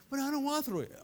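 lightly voiced child objecting to Dad; protesting child. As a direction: plead like a reluctant kid. Voices reluctant child refusing his father.

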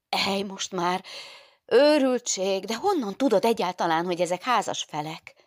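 can't believe it; nun exclaiming at the girl's news; shocked nun. Acted.

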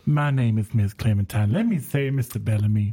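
Southern belle. Acted. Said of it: "talk like a Southern belle".

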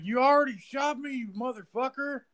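hammed-up high goon comeback; imitating the henchman. Retelling henchman's reply.

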